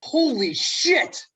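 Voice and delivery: slow stunned gasp. Acted. Mask reveals Ted.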